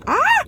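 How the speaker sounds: sharp high yelp from a burnt tongue; pained yelp. Real, not acted. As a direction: yelp as the hot food burns. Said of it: "That crap burned my tongue".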